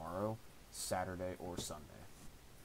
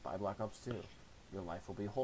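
infomercial voice. Pretend. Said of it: "I sound like some infomercial".

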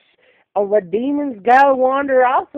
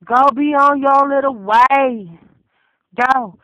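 louder and higher, sending off; shouting; 4 semitones higher, 5 dB louder than usual. Real, not acted. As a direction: yell it, pushing them away. Shouted dismissal in rant.

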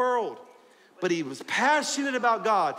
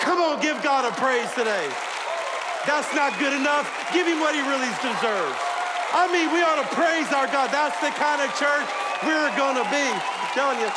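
higher, louder rallying praise; full-force preaching; 7 semitones higher, 4 dB louder than usual. Acted. Pastor rousing the congregation, loud and high. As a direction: whip the room up to praise.

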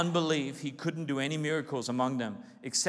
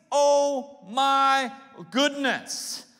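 amazed crowd; 6 semitones higher, 5 dB louder, much slower than usual. Retold or imitated. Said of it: "they asked".

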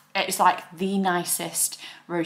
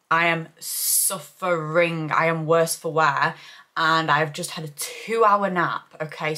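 hungover; 2 semitones lower, 3 dB louder than usual. Real, not acted. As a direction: drag the words out like a bad hangover. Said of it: "celebrating ... with the hangover from hell".

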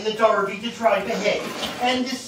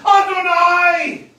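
higher, louder slow cry of answer; main cry; 9 semitones higher, 7 dB louder, slower than usual. Acted. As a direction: cry out to the heavens. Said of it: "he answered with a main cry".

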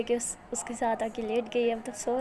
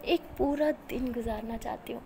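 tender smile; 3 dB quieter than usual. Acted. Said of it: "smile करके बोलती है".

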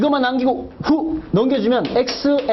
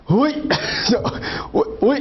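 boxing referee; 2 semitones higher, slower than usual. Retold or imitated. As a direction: call out like a referee breaking a clinch. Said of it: "심판이 그래".

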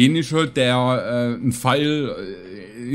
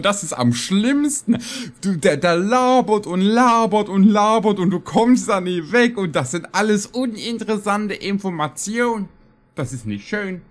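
exasperated rant; 9 semitones higher than usual. Real, not acted. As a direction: rant as if the chatter will never end. Genervte Tirade über endlos labernde NPCs. (genervt, hoch und gedehnt schimpfen)

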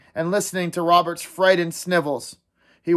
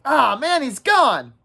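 anxious; 7 semitones higher, 4 dB louder, slower than usual. Acted. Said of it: "looked anxious".

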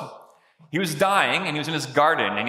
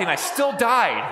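laughing; 5 semitones higher than usual. Retold or imitated. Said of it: "She goes".

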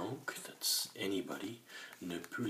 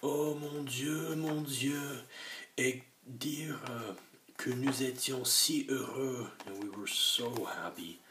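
wailing lament; 6 semitones higher, 3 dB louder than usual. A narrator's reading. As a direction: mourn aloud. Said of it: "gémit".

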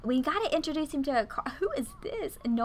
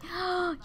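quick, soft gasp; small intake of breath in delight; 7 semitones higher, 4 dB quieter than usual. Real, not acted. Player thrilled at the baby moment, delighted gasp.

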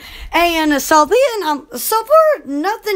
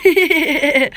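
excited shout; 4 semitones higher, slower than usual. Real, not acted.

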